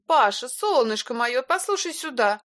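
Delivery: high, sweet coaxing woman. A narrator's reading. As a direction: soothe and persuade him. Илона уговаривает Пашу. (ласково уговаривая)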